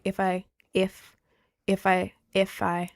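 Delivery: IF said with a little click; punchy repeated IF with a tiny click; piercing click. Shown as a demonstration. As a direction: make IF click lightly against the teeth. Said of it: "you hear that little click".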